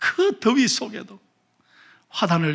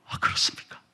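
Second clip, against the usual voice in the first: whisper; 7 dB quieter, faster than usual. Acted. Deaconess answers the angel, awed.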